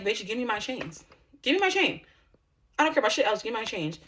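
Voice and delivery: loud angry demand for the chains; yelling at her. Retold or imitated. Yelling at the sister in the parking lot, furious. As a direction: bark it at her as she drives out.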